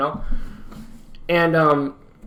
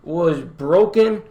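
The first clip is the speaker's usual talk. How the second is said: mock-dramatic heartbreak; much slower than usual. Mock-tragic heartbreak retelling.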